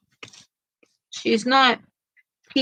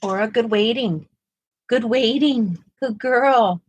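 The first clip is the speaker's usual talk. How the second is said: talking to a dog; 3 semitones higher than usual. Real, not acted. Praising the dog.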